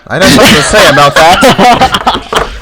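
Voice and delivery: high, slow put-on old farmer; a farmer warning a young man off his field, high and slow. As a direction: drawl it like a fussy old farmer. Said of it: "No need to be so violent, young man".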